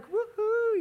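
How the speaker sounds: high, loud forced whoop; put-on cheer to hide a child's panic; imitated dad's rallying woohoo; cool dad cheering. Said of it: "trying to be the cool dad".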